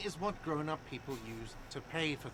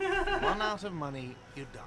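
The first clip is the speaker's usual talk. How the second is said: laughing; 3 semitones higher, 8 dB louder than usual. Acted. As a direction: say it through a laugh. Hostel owner voice, laughing.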